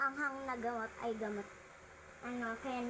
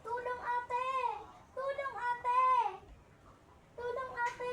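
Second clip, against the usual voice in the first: mock cry for help; 9 semitones higher than usual.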